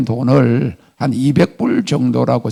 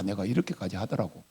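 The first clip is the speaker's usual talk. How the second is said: ordinary talk, nothing marked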